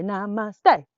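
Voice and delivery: loud answered namaste; repeat call. Shown as a demonstration. Teacher showing kids the reply to the sergeant. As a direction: call it back like a recruit. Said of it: "you say".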